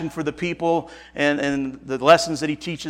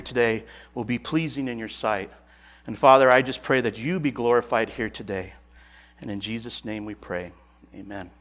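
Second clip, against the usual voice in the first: prayer; 3 semitones lower than usual. Real, not acted. Pastor praying to Heavenly Father before preaching, subdued prayer. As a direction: pray aloud, settling into a hushed close.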